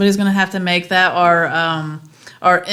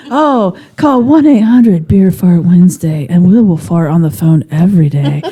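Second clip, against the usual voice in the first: phone sex ad; 5 dB louder than usual. Pretend. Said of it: "That sounds like a phone sex".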